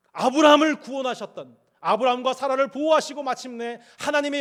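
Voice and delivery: loud, high, rising preacher's cry; full-force preaching. Acted. Pastor urging the congregation, preaching loudly. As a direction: preach it out with growing fire.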